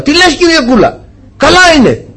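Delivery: retold high-pitched fobbing off; mock reassurance. Painter fobbing off his blind client, mock high reassurance. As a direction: brush off the complaint in an imitated high voice.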